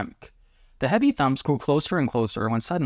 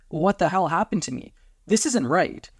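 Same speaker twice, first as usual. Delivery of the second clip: higher, distressed disbelief; alarmed; 6 semitones higher than usual. A narrator's reading. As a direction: protest in mild panic. Transformed partner panics.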